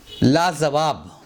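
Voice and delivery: 'लाजवाब' slowly with z in the middle; wrong pronunciation. Shown as a demonstration. Teacher presents the common error, mispronounced. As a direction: stretch 'लाजवाब', saying z for j. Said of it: "ये गलत तलफ़ुज़ है".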